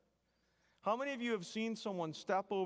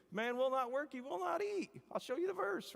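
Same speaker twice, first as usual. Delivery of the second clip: fervent; 9 semitones higher than usual. Real, not acted. Quoting scripture with fervor.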